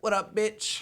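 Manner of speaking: talking lizard. Pretend. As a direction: greet your owner as a sassy lizard. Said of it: "your fucking lizard's like".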